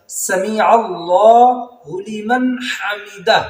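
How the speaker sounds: سمیع اللہ slow, long vowels; correct recitation. Shown as a demonstration. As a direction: draw out سمیع اللہ لمن حمدہ. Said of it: "کہنا اس طرح ہے". (صحیح ادائیگی)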